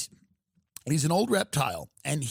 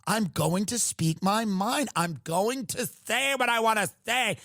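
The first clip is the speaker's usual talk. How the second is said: Lindsey Graham impression; 3 semitones lower than usual. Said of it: "Lindsey comes out and he goes".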